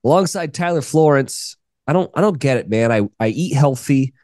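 stuffy nose from a cold, nasal; talking through a blocked, nasal nose. Real, not acted. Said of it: "please excuse my nasally voice today".

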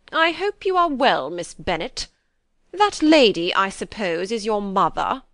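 haughty, stiff grand lady, a bit slow to start; stiff Lady Catherine. A narrator's reading. Lady Catherine stiffly questioning Elizabeth, lightly voiced grande dame. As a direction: look down on her host, stiffly. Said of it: "she said very stiffly".

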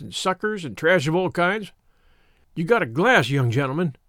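lightly voiced, insistent rustic elder; old country shepherd. Shepherd telling boys about the neglected field, mildly insistent. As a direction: lay it out in mild country dialect.

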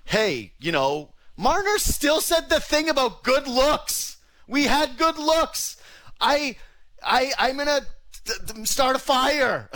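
high, slow mocking voice of the players; sneering mock of the players' press talk. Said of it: "there is like".

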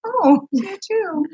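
high, drawn-out retold thanks; touched reply. Retelling a goodbye to a forgiving stranger, high and touched. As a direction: draw it out sweetly, imitating a touched caller.

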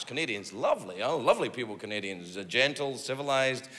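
soft, low, fond reassurance; gentle praise. Pretend. Comic praising lovely Canadians before the twist, gentle and soft. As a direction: drop down soft and low, mock-tender.

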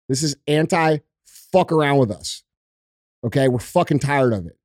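ordinary delivery

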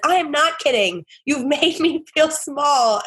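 imitating a touchy man snapping back; mock angry insistence. Woman mimics the date who banged the table, mock angry. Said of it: "he bangs his fists on the table and says".

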